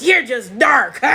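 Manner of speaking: loud mock voice of the woman; mocking her voice. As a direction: imitate her with a loud, exaggerated jeer. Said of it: "You can hear it in her voice".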